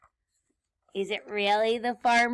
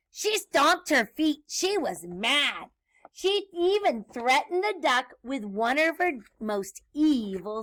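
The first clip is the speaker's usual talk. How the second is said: lively, slightly raised read-aloud; story read to children; 4 dB louder than usual. A narrator's reading. Teacher reads Grinch's broomstick trip to children, lively storytelling. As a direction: narrate a picture book with bounce.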